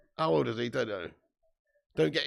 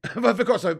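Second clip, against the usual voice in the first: laughing repeat; 6 semitones higher, 5 dB louder, much faster than usual. Real, not acted. Repeats question louder, laughing.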